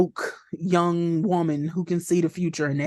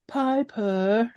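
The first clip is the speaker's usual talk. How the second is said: imitating Patty calling; 3 semitones higher than usual. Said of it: "neither one of them say the daughter's name".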